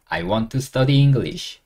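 very slow, word by word; slow model sentence. Shown as a demonstration. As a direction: drill it slowly for learners. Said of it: "요렇게 하시면 됩니다". (천천히 또박또박 따라 하기)

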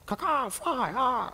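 high squawking eagle cry; hammed-up bird screech; bad eagle call. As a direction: caw like an eagle, badly. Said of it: "my bad eagle impersonation".

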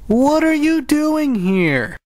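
high startled what are you doing here; surprised. Real, not acted. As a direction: caught off guard, voice jumps up. Sister barges in with microphone.

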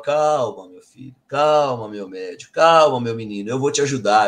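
gentle, soothing reassurance; calm him down tenderly; soothing comfort. Retold or imitated. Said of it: "Eu esperava".

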